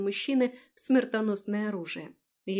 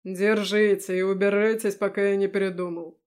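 smiling; 6 dB louder than usual. Acted. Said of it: "всё ещё улыбаясь".

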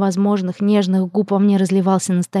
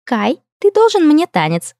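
higher, slower playful princess; playful demand; 8 semitones higher, 3 dB louder, slower than usual. Acted. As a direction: tease him with a high demand.

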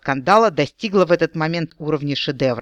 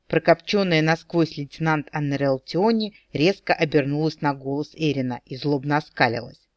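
plain reading voice

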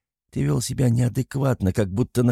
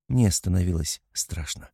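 ordinary delivery, nothing marked

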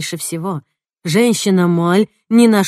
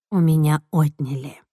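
plain reading voice

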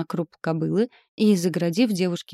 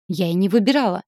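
nervous blurt; 5 dB louder, faster than usual. A narrator's reading. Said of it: "выпалила девушка нервно".

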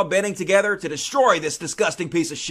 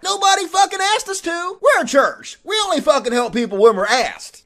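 mock excuse; 3 semitones higher than usual. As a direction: whine out lame excuses as the pastor. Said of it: "He's like".

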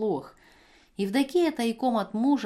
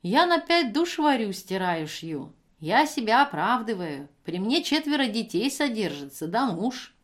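indignant; 3 semitones higher than usual. Acted. Евдокия оправдывается в споре.

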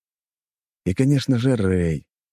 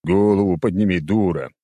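mildly raised rough command; understated yell; shouted order; 4 dB louder than usual. A narrator's reading. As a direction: call it out as an urgent order. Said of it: "выкрикнул Незик".

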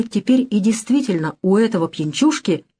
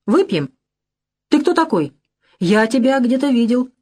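put-on drunken mumble; 4 semitones higher than usual. A narrator's reading. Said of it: "с пьяной сосредоточенностью".

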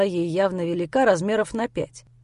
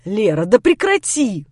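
louder, slowed exasperated command; snapping; 5 dB louder, slower than usual. Acted. Grisha losing patience with hysterical Lera, exasperated. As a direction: bark it to snap her out. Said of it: "Окончательно взбесился я".

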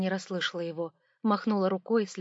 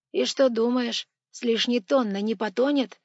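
curious monk voice; 4 semitones higher, 8 dB louder than usual. Acted. Tyutin worries about sinking.

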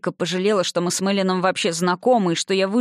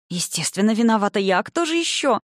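hissing sarcasm; 3 semitones higher than usual. Acted. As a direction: spit the blame back mockingly. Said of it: "прошипела я".

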